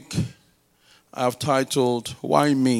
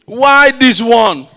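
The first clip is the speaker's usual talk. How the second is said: loud, slow playful incredulity; mock disbelief; 6 semitones higher, 10 dB louder, much slower than usual. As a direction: act baffled that she picked him. Retelling a lady's choice.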